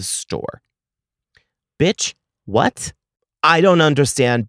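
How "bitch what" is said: breathy, incredulous "Bitch, what?"; can't believe what you just heard; stunned disbelief. Real, not acted. To the clerk about another hold, stunned disbelief. Order put on hold again.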